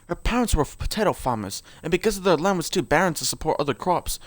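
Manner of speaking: put-on lore read aloud in an amateur British accent.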